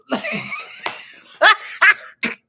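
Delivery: shrieking laugh that breaks high; very high, loud laugh. Real, not acted. Streamer laughing at his own joke about haters.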